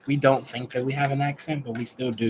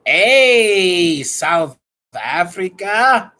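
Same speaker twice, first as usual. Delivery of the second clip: loud excited hey; 5 semitones higher, 8 dB louder, much slower than usual. Real, not acted. Greets South Africa loudly.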